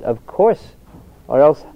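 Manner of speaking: retold emphatic reply, bordering on annoyed; forceful, almost annoyed. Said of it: "strength, almost to the point of annoyance".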